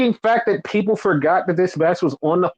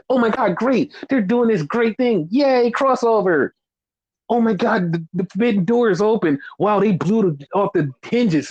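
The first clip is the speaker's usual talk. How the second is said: mocking gushing fans; 4 semitones higher than usual. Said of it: "Don't fucking come at this bullshit like".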